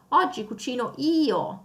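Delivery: io weighted and lengthened; stress on io. Shown as a demonstration. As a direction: lean on the io at the end. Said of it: "The subject io is emphasized".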